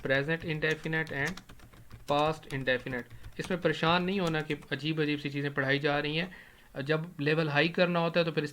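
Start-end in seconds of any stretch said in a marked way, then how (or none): 0.1-3.2 very slow, each word spaced; spelling out the two tenses; slow emphatic answer. Shown as a demonstration. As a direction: drill the answer in slowly. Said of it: "کس میں use ہوتے ہیں؟".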